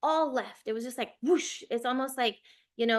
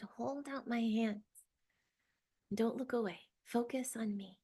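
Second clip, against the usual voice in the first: soft, tender guidance; gently reassure, unhurried; quiet, loving spirit guide; 4 dB quieter than usual. Retold or imitated. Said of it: "And it was so loving".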